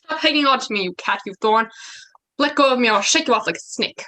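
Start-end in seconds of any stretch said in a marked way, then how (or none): 2.4-4.0 angry demand. Acted. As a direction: shake her off with your voice. Lysander struggles free of Hermia.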